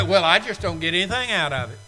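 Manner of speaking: lightly mimicked grumble, a bit fast; a hint of a whiny churchgoer; mock complaint. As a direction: imitate a bored churchgoer's excuse. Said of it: "weary of hearing people say".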